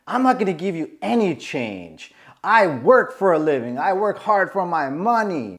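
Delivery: mildly indignant mock rant; lightly acted self-righteous complaint; indignant Karen. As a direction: imitate a woman telling someone off. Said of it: "going off on the homeless dude".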